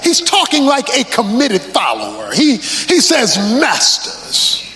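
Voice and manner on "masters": church holler. Acted. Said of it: "like folk in church hollering out".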